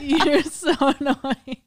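slow, loud laughing teasing; laughing tease. Real, not acted.

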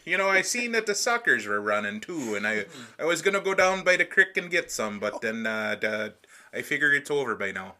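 sing-song, put-on Yooper accent; broad mock Yooper local. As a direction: play a Yooper fisherman swapping news. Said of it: "just talk like that".

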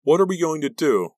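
loud, very high anxious cry; high-pitched, alarmed question; panicked. A narrator's reading. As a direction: cry out helplessly for a plan. Panicked Ricky asks the group.

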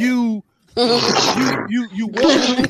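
breaking into giggles mid-sentence; trying not to laugh; stifled giggles. Real, not acted. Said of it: "I'm trying to keep a straight face".

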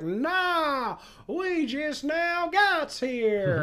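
squeaky voice breaking into laughs; high, slow and giggly reply; high laughing voice. Retold or imitated. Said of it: "And one of the guys is like".

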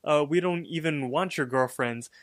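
half-hearted yell back at a rival; retold yell. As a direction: imitate a hurried yelled denial, starting high. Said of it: "Mordecai yells back".

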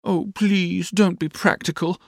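put-on high, wheedling girlish plea; coaxing. A narrator's reading. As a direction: coax sweetly in a high voice. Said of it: "said Dora coaxingly".

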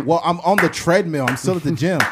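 high, loud flustered excuse; lying girlfriend. Acted. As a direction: squeal out a panicked lie.

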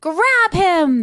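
loud, high command; shouted order. A narrator's reading. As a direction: shout to set the gang on him. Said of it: "they shouted".

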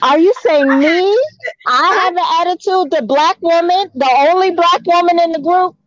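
mock Karen. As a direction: play the wounded Karen, pitch up. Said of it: "And then you say".

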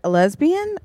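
high shocked question; surprised. Retold or imitated. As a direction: ask it in disbelief. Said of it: "so you're like".

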